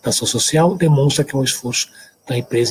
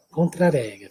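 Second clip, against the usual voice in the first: "Contra-regra" with a São Paulo tap r, as "contraréGRA"; São Paulo accent; slower than usual. Shown as a demonstration. Teacher imitating the São Paulo way. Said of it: "o paulistano da moda".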